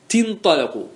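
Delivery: "تنطلق" as tintaliq, ta with kasra; Tamimi kasra prefix. Shown as a demonstration. Teacher to class, Tamimi kasra demo. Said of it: "أن تكسر حرف المضارعة".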